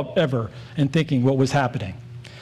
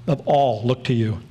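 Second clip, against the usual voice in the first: "all" leaned on in a measured reading; stress on "all"; 3 semitones lower than usual. Shown as a demonstration. Preacher reading a Psalm to the church, emphasis on "all". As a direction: put the weight on "all". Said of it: "I'm gonna emphasize the word all".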